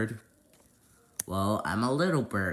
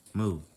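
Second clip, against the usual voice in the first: little moo; 4 semitones lower, 3 dB quieter than usual. Pretend. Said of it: "He's a cow".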